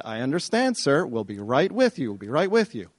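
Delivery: mild, placating receptionist impression; lightly voiced brush-off of a panicking caller; unhurried receptionist. Receptionist to frantic father, mildly placating.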